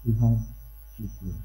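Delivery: low, soft word of thanks; quiet gratitude. Retold or imitated. Priest thanks God on the way home, quiet gratitude. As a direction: drop to a hushed private prayer.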